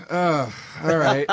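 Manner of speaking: slow, underwhelmed all right; flat-out unimpressed mumble. Retold or imitated. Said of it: "like that, right?".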